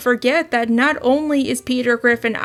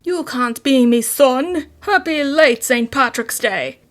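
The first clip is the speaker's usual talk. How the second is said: mock Irish brogue for Saint Patrick's Day; terrible Irish accent. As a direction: play the stage Irishman badly on purpose. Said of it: "therefore I get away with this terrible accent".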